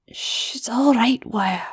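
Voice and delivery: soft hush of comfort; soothing whisper to a crying sister. Acted. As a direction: whisper it to calm her. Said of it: "Flash whispered".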